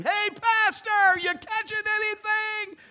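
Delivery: high, slow call across the lake; cheerful drawn-out yell. Retold or imitated. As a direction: shout down to the pastor at the water. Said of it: "I start yelling at him".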